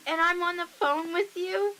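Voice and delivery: high, loud, incredulous question; imitated horrified realisation. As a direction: act out a friend's appalled realisation. Retelling friend's horrified realisation.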